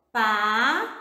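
"Palavras" in three long syllables with wide pauses; split into syllables. Shown as a demonstration. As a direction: say "Palavras" syllable by syllable for pupils to repeat. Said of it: "Repita esse nome aí".

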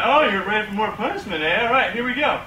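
a touch of smug gamer taunt; lightly voiced cocky nerd. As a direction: taunt the baby confidently.

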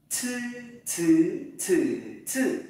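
"Thư" as a puffed ts, through four tones; tongue straight, burst air on each "thư"; aspirated flat-tongue c. Shown as a demonstration. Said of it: "Chữ C thẳng lưỡi, bật hơi". (đọc "thư" thẳng lưỡi, bật hơi)

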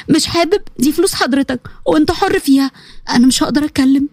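nervous edge. Acted. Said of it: "فقالت بشيء من العصبية".

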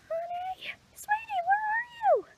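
high, breathy search whisper with no voice; hush-call for the lost child. Acted. Mother searching for missing daughter.

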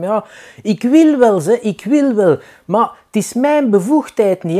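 high, slow, pleading official; whiny official. Retold or imitated. Official telling the alderman it is not his job, whiny. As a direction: plead helplessly, passing the buck.

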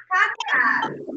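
as if calling someone named cadeado; calling the word. Shown as a demonstration. Teacher showing pupils how to find the stressed syllable, calling out. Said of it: "faz de conta que eu vou chamar".

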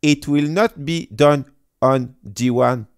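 reads the English reply aloud in a French accent; reading in English with a French accent. Shown as a demonstration. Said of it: "Dis-le en anglais, s'il te plaît". (lecture de la réponse en anglais avec l'accent français)

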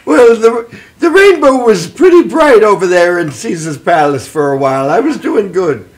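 lilting stage Irish storyteller; Irish accent. Acted. Gambling leprechaun defends his casino story, in Irish accent. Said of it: "I can do an Irish voice".

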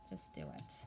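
unvoiced, hushed push to act; whispered urging. Real, not acted. Tarot reader whispering to the viewers to just act. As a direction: breathe it like a secret nudge.

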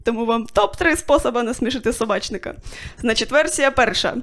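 ordinary delivery

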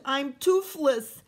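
loud, high anguished wail; moaning. Acted. George moaning that he is toothless, hammed-up wail. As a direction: wail at losing the last tooth. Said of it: "George moaned".

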